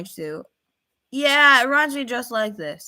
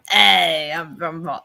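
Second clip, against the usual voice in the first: attempted Boston accent; 5 semitones lower, 5 dB louder, slower than usual. Shown as a demonstration. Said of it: "I can do a Boston accent".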